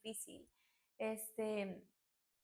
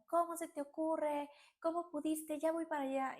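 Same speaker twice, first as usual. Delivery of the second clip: higher-pitched retold outrage, not truly shouted; mild mock yell; 5 semitones higher than usual. Mother scolds grandmother over the phone, mild mock yell. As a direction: imitate an upset mother yelling, held back. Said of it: "escucho a mi mamá gritar".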